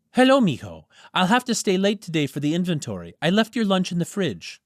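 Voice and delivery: a busy mom calling her son; mother on phone. Acted. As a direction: mom phoning her son before a late shift, lightly voiced.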